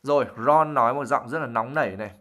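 usual speaking voice

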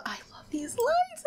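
whispered with delight; awed whisper. Real, not acted. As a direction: breathe it out in wonder. Admiring chapel lights.

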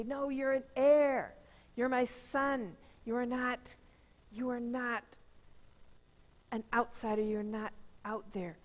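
like a father embracing his lost son; tender father. Acted. Father welcomes son home, parable.

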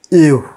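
"U" as a falling "ee-oo" glide; teacher's isolated, emphatic "U"; sound demonstration. Shown as a demonstration. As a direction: sound out "U" like "yoo". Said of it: "the pronunciation of U is".

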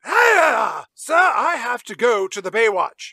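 loud, high Brian voice insisting on the Baywatch; Brian shouting. Retold or imitated. Brian loudly begging Ben Affleck to go, shouting. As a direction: yell it out like a stubborn Brian. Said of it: "impression of Justin Bartha as Brian".

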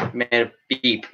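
ordinary talk, nothing marked

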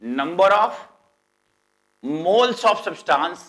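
very slow, each word drawn out for notes; slow dictation. Shown as a demonstration. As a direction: dictate it slowly to the class. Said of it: "teacher dictates definition".

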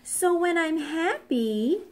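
high, lightly voiced little girl; hint of a merry girl; laughing little girl. A narrator's reading. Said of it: "laughed the little girl".

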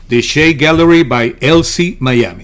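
brand name in polished English; slow, well-pronounced English sponsor name; English pronunciation. Real, not acted. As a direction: switch into careful English for the name. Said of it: "qué bien le suena a usted ese inglés".

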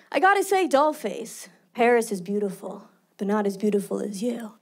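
hint of an old-time TV leading man; smooth old-movie flattery, punctuated with pauses; fifties TV charmer. Guy with cigar wooing Dollface, fifties TV style. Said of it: "nineteen fifties black and white T V shows".

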